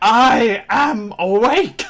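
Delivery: full, high, loud, in-character shout. Voicing a party member shouting alongside the sword: imitating Cade shouting. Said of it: "At the same time as Cade shouting".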